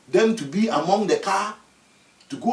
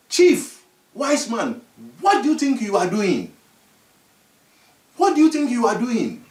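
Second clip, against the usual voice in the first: scolding. Acted. Dwarfs scold the chief.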